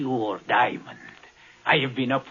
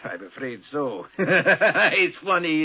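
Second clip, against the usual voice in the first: amused at planning the murder; cruel laugh; slower than usual. Acted. Laughs about killing him.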